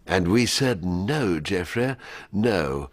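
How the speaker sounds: regal, dismissive Thatcher. Acted. Thatcher royal we.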